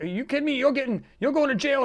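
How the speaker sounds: imitating a stunned old man after a punch; shocked disbelief. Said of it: "And then he's like".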